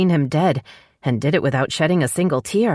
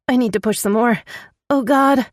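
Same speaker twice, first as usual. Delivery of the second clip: moaning; 9 semitones higher than usual. A narrator's reading. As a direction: moan through the urge to push. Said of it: "Tanya moaned".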